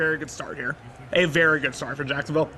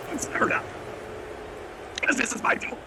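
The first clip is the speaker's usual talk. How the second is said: 1 whisper; 7 semitones higher, 6 dB quieter than usual. Real, not acted. In a library, worried about noise.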